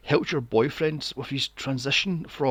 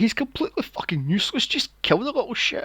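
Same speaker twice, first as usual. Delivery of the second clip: mock cheering; 7 semitones higher, 4 dB louder than usual. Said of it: "And I was going".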